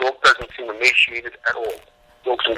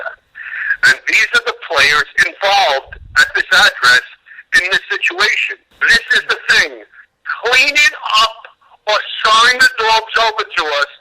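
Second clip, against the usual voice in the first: firm, clipped-free retold ultimatum, higher pitched; stern warning; 7 semitones higher than usual. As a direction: lay down the law, word by word, slowly.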